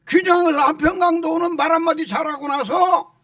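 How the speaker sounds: high-pitched, insistent sermon delivery; impassioned preaching. Real, not acted. Pastor telling the congregation works do not save, impassioned preaching. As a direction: drive the point home to the congregation.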